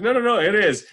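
high, loud retold insistence; insisting. Friend insists the page is for Carla, emphatically. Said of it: "I was like".

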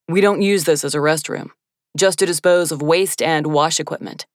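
lightly voiced stern scientist. Voices the deep-voiced man.

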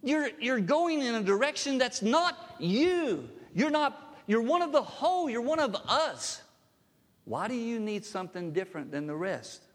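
Jesus pleading with Thomas, impassioned cry; impassioned plea. Retold or imitated. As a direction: cry out to him to come back. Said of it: "what the Lord was saying to him".

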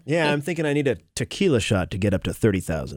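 a hint of a hotshot pilot. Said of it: "You did the pilot voice".

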